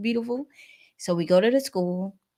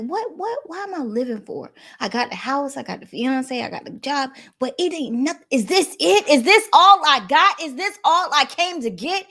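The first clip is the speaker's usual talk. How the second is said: anguished questioning; 7 semitones higher than usual. Retold or imitated. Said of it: "I had that conversation with God".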